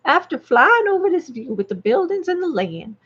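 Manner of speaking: lightly hammed-up Southern hick reading. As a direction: read it like a rural Southern storyteller. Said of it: "let's read the story in this voice".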